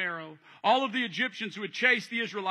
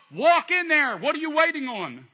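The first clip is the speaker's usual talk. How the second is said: God commanding; 6 semitones higher, 5 dB louder than usual. Acted. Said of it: "God goes".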